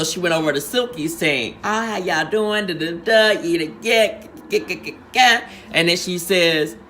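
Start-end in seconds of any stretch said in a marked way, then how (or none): 1.6-5.5 mock Silky greeting. Retells Silky greeting other team.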